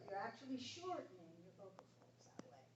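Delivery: hushed, breathy aside; whispered aside. Real, not acted. Teacher whispers an explanation to students during the exercise. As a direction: whisper it so only they hear. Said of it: "whispered aside to students".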